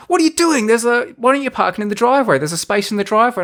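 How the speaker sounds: high, exasperated mock wife voice; squeaky imitation of an annoyed fiancée; mimicking Kylie. Teller mimics his fiancée protesting in the car, high and exasperated. Wife's quote in parking argument.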